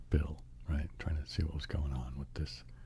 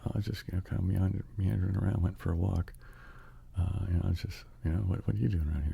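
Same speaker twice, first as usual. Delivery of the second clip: mildly higher, rambling casual excuse; playing it off; 4 semitones higher, faster than usual. Bill caught out near the other man, playing it off. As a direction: lightly act nonchalant, stumbling along. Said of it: "he tried to play it off like it was, you know, whatever".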